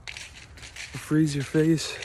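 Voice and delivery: slow, drawn-out Minnesotan accent. Shown as a demonstration. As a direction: lean into a thick Minnesotan accent. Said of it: "you start talking like this 'cause of it".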